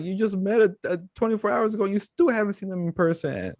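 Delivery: high, fast mock outrage; incredulous yelling at TV. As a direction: shout at the screen in disbelief. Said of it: "I'm like".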